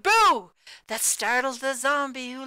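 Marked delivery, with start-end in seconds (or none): 0.0-0.5 loud, high spooky Boo; jump-scare shout of Boo; ghostly shout. A narrator's reading. Ghost scaring the zombie, a loud high shout. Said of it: "the ghost who shouted".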